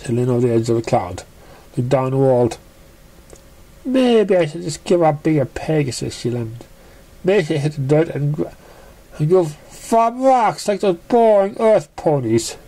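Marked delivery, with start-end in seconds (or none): 3.8-12.6 a hint of a moping pony voice; sulky pony. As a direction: mope aloud to herself. Narrator voices Surprise.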